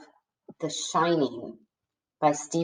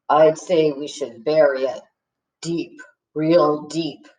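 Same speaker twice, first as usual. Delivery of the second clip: low, slow and grave; a gloomy partner deciding on the burial; somber bass tones; 4 semitones lower than usual. A narrator's reading. Partner answering Sophie, slow and somber. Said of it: "Tom replied in his somber bass tones".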